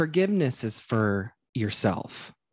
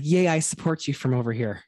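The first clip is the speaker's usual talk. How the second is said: mock cheerful ally; 3 semitones higher, faster than usual. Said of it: "ally is like".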